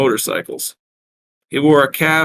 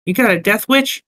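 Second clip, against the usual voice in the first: high-pitched Brooklyn barmaid; Brooklyn accent; 10 semitones higher than usual. Acted. Concerned barmaid questioning the strangers, Brooklyn accent. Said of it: "A look of concern washed over".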